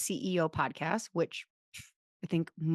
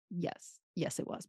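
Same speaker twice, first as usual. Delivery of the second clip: a sheepish whispered yes; quiet whispered admission; 10 dB quieter than usual. Retold or imitated. Patient whispering to her therapist, resigned. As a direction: whisper it, voiceless and small. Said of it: "And I'd be like".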